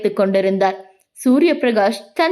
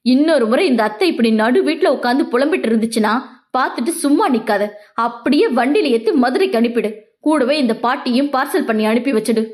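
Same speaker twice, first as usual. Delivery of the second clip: rattled-off blunt orders to his cousin; quick offhand bluntness, lightly voiced; fast, blunt; faster than usual. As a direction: brush them off quickly and bluntly. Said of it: "தடாலடியாக கூறிய".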